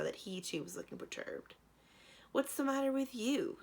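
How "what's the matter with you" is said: crossly. A narrator's reading. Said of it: "she asked crossly".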